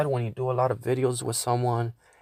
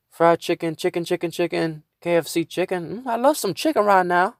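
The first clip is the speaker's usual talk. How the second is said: mock taunt in a raised pitch; imitated yelling; 5 semitones higher than usual. Friend heckling an old man and granddaughter, imitated yell. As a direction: chant it as a higher-pitched mocking heckle. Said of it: "he's yelling at a black".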